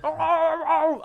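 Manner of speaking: high startled oh cries; retold shock. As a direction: gasp out in alarm. Seeing injured puppy run in.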